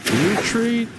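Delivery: high cry to fall back; urgent call. Real, not acted. Ordering his troops back.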